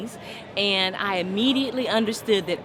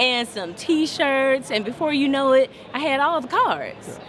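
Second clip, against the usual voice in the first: excited; 6 semitones higher, 4 dB louder than usual. Retold or imitated. Retelling free credit card giveaways.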